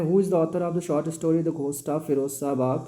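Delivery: slow, careful exam read-aloud; question reading. Acted. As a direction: read each word out slowly. (धीमी, साफ़ पढ़ाई)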